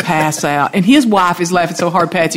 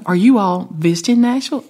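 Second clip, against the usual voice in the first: lightly voiced Southern hostess, rising question; a touch of hostess politeness in the asking. Storyteller asking a couple outside the bar, lightly played Southern hostess. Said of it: "The Southern hostess that I am".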